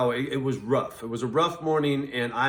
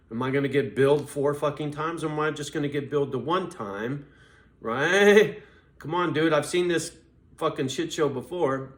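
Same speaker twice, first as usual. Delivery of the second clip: louder, exasperated retelling of a call; retold exasperation; 2 semitones higher, 5 dB louder than usual. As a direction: push back hard, fed up. Retold heated complaint to agent.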